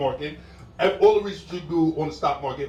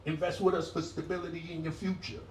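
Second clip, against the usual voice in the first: smooth finance ad; 5 semitones higher, 6 dB quieter than usual. Retold or imitated. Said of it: "first commercial be like".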